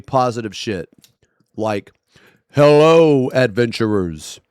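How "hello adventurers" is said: mock-grand polite roleplay voice; lightly hammed-up, earnest fantasy greeting; a hint of a noble sorcerer; overly cheerful RP character. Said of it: "And that's how I would talk".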